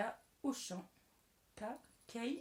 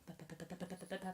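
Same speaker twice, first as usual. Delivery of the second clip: low, rapid "pa-pa-pa" stutter; babbled filler syllables in a monotone; tongue-tied babble; 3 semitones lower, 4 dB quieter, much faster than usual. Real, not acted. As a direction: trip up and sputter out a string of pa's. Babbles after stumbling over words.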